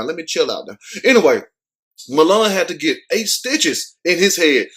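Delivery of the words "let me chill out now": calming down. Real, not acted. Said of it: "Let, let me, let me chill out now".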